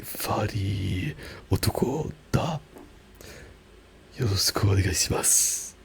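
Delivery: Japanese self-intro with a German accent; slow careful German-flavoured Japanese. Shown as a demonstration. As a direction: read it slowly with German sounds. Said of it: "that would be like".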